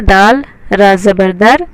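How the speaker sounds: slow, letter by letter; slow spelling-out. Shown as a demonstration. Teacher spelling out a word slowly to students. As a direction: read it out slowly for the class. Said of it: "तो हम इसे इस तरह से पढ़ेंगे".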